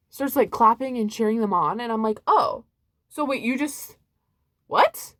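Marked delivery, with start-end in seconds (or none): 2.3-5.1 confused surprise. Retold or imitated. Own reaction to restaurant applause.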